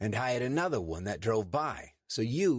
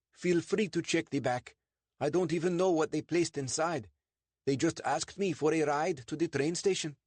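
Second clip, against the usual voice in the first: high, over-eager innocent voice; nervous Sandeep; 9 semitones higher, 4 dB louder than usual. Acted. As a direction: talk your way past the police, a touch too high. Voiced Sandeep explaining to police.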